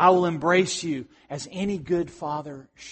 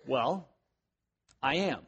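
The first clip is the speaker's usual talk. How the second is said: quiet God's answer; 4 semitones lower, 9 dB quieter than usual. Pretend. Acted dialogue, God answers.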